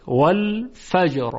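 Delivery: والفجر slowly, ending on a thick r; drawn-out والفجر with heavy final ر. Shown as a demonstration. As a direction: stop on a full, heavy ر in والفجر. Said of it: "حرف را تفخیم بشه".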